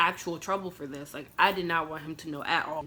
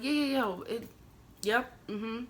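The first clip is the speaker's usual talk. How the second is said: higher-pitched, hurried-to-please yeses; placating agreement; 5 semitones higher than usual. Retold or imitated. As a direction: agree just to appease him. Placating the man while scared.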